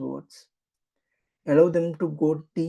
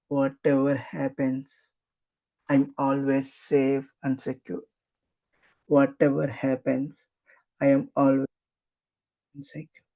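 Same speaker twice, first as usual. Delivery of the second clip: more emotional. Shown as a demonstration. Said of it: "Now say it a little more emotionally".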